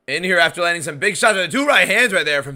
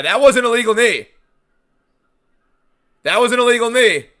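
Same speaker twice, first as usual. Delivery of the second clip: excited; 8 semitones higher, 6 dB louder than usual. Real, not acted. Excited call of foul.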